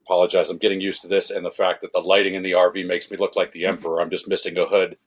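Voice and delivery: muffled, like a hand over the mouth. Real, not acted. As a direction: speak through a muffled mic. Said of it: "a muffled voice".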